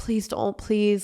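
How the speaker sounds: mock begging, imploring plea. Retelling begging him not to break up, retelling begging him. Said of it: "I'm begging him not to break up".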